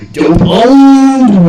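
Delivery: big hammed-up victory shout; hammy stage actor. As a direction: bellow it like a triumphant ham. Bragging shout in retold scene.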